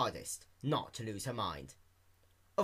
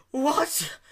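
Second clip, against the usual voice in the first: stunned; 11 semitones higher, 5 dB louder than usual. Acted. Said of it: "Dash's voice diminishing greatly in volume".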